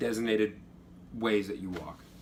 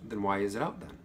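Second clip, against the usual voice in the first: calm; 4 semitones lower than usual. Retold or imitated. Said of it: "he goes calmly".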